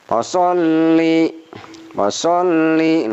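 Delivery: "Washolli" slow with the double l held long. Shown as a demonstration. Teacher demonstrates the held ll of "Washolli". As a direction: hold the ll in "Washolli". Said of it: "ditahan bacanya".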